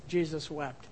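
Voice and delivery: Jesus wept said softly, falling away; quiet. A narrator's reading. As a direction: let Jesus wept drop to a hush. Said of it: "is a quiet word".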